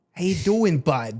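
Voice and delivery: put-on heavy Boston accent, laid on thick. Recalling visitors from Gloucester during school days, doing their heavy accent. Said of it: "have like this heavy".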